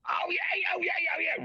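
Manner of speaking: oh yeah cried high and loud; loud high town crier call. Retold or imitated. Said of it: "really loud".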